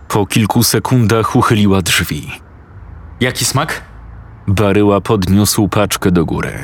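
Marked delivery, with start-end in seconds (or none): 3.2-3.8 put-on higher, bored girl's voice; bored bargaining sister; teenage sister.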